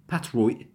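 "patroit" as pat-roi', final T unreleased; last T glottalized. Shown as a demonstration. Teacher showing another option, glottal final T. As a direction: stop only the last T of "patroit". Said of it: "One of them?".

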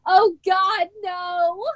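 dismayed groan. Retold or imitated. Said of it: "her exact words were".

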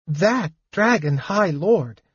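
slow, halting words; hesitant. Acted. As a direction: feel for each word. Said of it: "the Kender said hesitantly".

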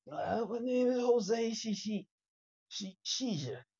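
a light mock pirate voice; understated pirate introducing himself. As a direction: growl it out like a pirate captain. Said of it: "you was like a pirate".

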